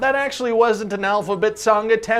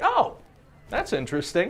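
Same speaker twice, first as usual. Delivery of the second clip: party small talk; 2 semitones higher, 6 dB quieter than usual. Retold or imitated. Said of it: "you're like".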